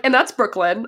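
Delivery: giggling while introducing a friend; laughing introduction. Retold or imitated. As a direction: introduce her through a laugh. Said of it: "I'm like".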